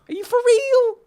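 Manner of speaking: high, loud American voice; loud, high US accent. Pretend. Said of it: "Was that an American accent?".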